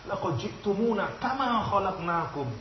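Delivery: kama ditekan tinggi, pelan, nada naik; tegas pada kama. Shown as a demonstration. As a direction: tekankan kata kama dengan tegas dan lambat. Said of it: "Mestinya nadanya keras nek ngomong kama itu". (bacaan ayat dengan kama yang tegas)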